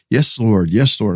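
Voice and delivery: low, easy retold prayer; praying under his breath. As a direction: imitate yourself settling into prayer. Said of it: "praying like that".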